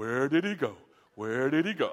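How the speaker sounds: silly, goofy, cartoonish goofball character voice. Describing how the speaker sounds when their spouse tells a story, Bugs Bunny cartoon voice. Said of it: "That's how I sound when Eleanor's telling a story".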